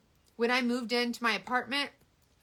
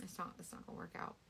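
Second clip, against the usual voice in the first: quiet mutter; 4 semitones lower, 16 dB quieter, faster than usual. Real, not acted. Muttering after coffee talk.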